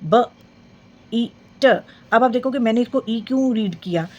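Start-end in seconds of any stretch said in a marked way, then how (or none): 0.0-1.7 letters spaced out, the ई held long; long vowel sounding out. Shown as a demonstration. Teacher sounding out a long ई word. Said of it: "long sound के words".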